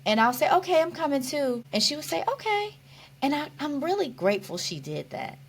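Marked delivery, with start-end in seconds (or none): 0.5-1.6 high-pitched, eager joining in; imitated eager reply. Patient answering sister about the mall, playfully eager. 2.3-2.8 very high, light okay; imitated agreeable sister. Sister humoring hospitalized patient, sweetly agreeable. Voicing sister playing along.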